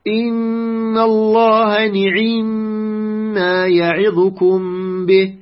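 measured Quran recitation, clear ni-'i-mma in نعم; kasra on nun and ayn. Shown as a demonstration. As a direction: chant the verse slowly, نعم as ni'imma with a full i on both nun and ayn. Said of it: "كسر النون وكسر العين".

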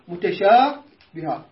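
متشابهة drawn out slowly, ending on a light ha; slow demo. Shown as a demonstration. Teacher showing how to stop on متشابهة. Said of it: "هنا تبو متشابهة".

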